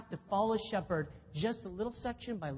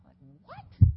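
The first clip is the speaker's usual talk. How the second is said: much higher, louder baffled outburst; mock bewilderment; 15 dB louder than usual. Real, not acted. Preacher baffled by his professor's answer, loud and high. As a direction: blurt it out in disbelief.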